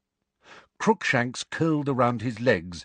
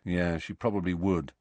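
dull; 2 semitones lower than usual. Acted. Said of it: "said Harry dully".

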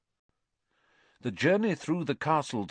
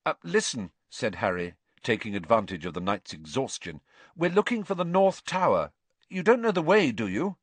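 polite Harry. Acted. Harry voiced, asking politely.

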